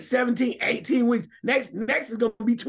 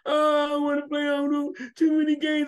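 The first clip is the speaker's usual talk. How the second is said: lightly mocking player's complaint, pitched up; mock a complainer on a held, higher note; Patrick Mahomes; 4 semitones higher than usual. Host mocking a player's objection to extra games, higher mock complaint. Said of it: "So this, "Oh, Patrick Mahomes".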